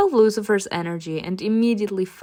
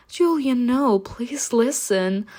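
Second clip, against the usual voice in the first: slow, pleading, higher on the name; mild sobbing plea; 4 semitones higher, slower than usual. Acted. Bride runs after the groom, slow tearful pleading. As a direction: beg him with a touch of tears.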